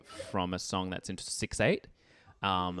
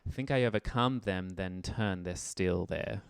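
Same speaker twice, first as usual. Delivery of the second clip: "still" leaned on, "there" drawn out with a rise; lyric with stress on still; slower than usual. Shown as a demonstration. Teacher showing where the stress falls on "still". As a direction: give "still" weight, then let "there" rise. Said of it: "ah, sorry".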